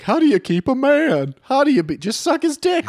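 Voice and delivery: magazine woman voice. Retold or imitated. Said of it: "They're like".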